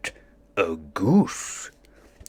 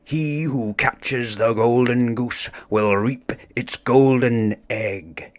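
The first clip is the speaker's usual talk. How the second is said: grand proclamation; 3 semitones higher than usual. Acted. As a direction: read it out like a royal decree. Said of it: "read from the scroll".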